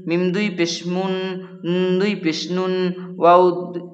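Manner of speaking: steady sing-song drilling of letter sounds; rhythmic teacher's recitation chant; Qaida recitation. Acted. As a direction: chant each syllable evenly like a Quran teacher. Drills letters with two pesh.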